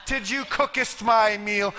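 slow, hammed-up old-English to the wife; absurdly formal question to his wife at dinner; mock formal talk. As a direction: ham up fake thee-and-thou speech. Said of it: "we don't talk like that".

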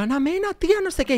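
high gushing fan voice. Retold or imitated. Trying again with the silent singer, high gushing fan voice. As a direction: coo the name at her idol. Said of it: "Y yo".

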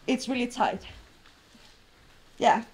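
normal talking voice

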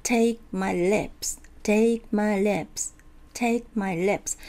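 slow model, "Take" and "lips" long and strong; stress on key words. Shown as a demonstration. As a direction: lean on "Take" and "lips", keep "my" lighter. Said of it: "強い、". (「Take」と「lips」を強く長く)

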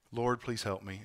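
a private prayer said almost silently; praying under breath. Shown as a demonstration. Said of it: "praying under your breath".

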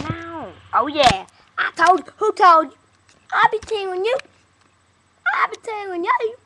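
loud, high, hammed-up Georgia accent. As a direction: belt it out in an overdone Georgia drawl. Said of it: "That was my fucked up Georgia voice".

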